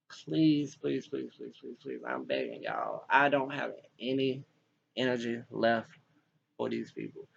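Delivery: pleading that fades to a near whisper; beg, letting the voice drain away to almost nothing; desperate begging. Real, not acted. Begging for help, fading out.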